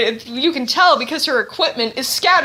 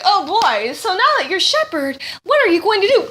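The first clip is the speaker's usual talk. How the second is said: mock game character; 5 semitones higher than usual. Mocking game dialogue retold.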